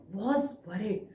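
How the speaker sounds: softened, concerned delivery; worried. Shown as a demonstration. Teacher showing the class a concerned police chief, worried. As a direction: let concern weigh on the words. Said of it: "I am expressing with my face".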